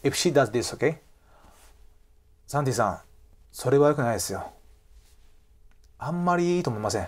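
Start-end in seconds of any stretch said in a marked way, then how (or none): 1.8-7.1 soft, polite refusal in Japanese; quiet, courteous criticism; nicely put disapproval. Acted. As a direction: turn the idea down gently and quietly. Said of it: "Even though she nicely talking".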